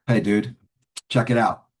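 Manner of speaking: loud, cocky "dude" talk; streetwise casual pitch. Retold or imitated. Newcomer approaches a man after the meeting, streetwise and casual. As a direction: toss it out casually, like slang. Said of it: "that's the way I talk".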